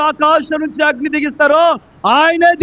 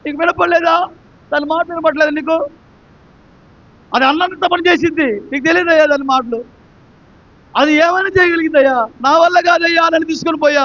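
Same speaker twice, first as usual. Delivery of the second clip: higher, pleading plaint of a frightened prophet; imitated crying complaint; 4 semitones higher than usual. Elijah complaining to the angel, in mock tearful pleading. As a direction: whine it out as a scared man begging. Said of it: "ఎందుకు ఏడుస్తున్నావు".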